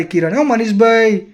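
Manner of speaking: half-hearted imitated shout to get attention; calling out. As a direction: call his name slowly, as if from a distance. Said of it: "જતાં જતાં એને બૂમ પાડી".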